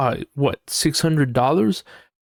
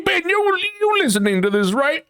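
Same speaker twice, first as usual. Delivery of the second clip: high, raised call across the room; calling out to Ben. Real, not acted. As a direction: call to Ben to get his attention.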